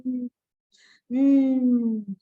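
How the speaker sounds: "mm" hummed firmly; mm sound. Shown as a demonstration. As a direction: hum "mm" as a letter sound. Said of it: "this is the action of mm".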